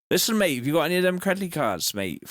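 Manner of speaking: lightly voiced rough lad, fast and cheeky; a hint of a mouthy local lad asking for cards; Devo voice. Streamer doing the Devo voice for chat, fast and cheeky. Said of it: "you did the Devo voice".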